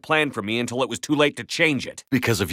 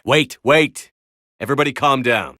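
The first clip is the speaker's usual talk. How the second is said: calling out; 5 semitones higher than usual. Acted. Calling to stop a fight.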